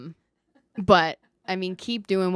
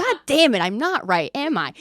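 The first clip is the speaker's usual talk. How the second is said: frustrated outburst; 7 semitones higher, 5 dB louder than usual. Retold or imitated. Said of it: "And I was like".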